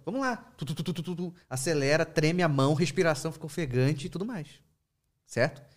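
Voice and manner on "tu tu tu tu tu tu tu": rapid tu tu tu like a pounding pulse; quick rhythmic heartbeat imitation, light and steady; imitated heartbeat. Shown as a demonstration. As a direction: tap out a racing heart with your voice. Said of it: "o que que o corpo falou?".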